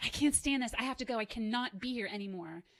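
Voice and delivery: urgent, pressing tone. Acting out the mobilizing voice that wants to act fast: voicing the urge to act fast. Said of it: "And the mobilizing voice".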